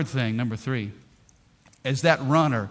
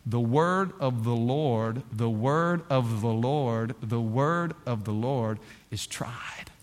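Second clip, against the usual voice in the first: slow, softer, dropping to a whisper; slow reading sinking to a whisper; fading to whisper; 5 semitones lower, 4 dB quieter, slower than usual. Real, not acted. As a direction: let each repeat sink quieter. Repeating scripture, fading out.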